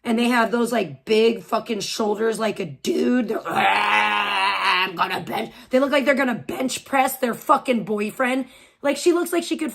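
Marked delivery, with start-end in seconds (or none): 3.4-5.5 mock gym bro. Mocking muscular women, shouted grunt.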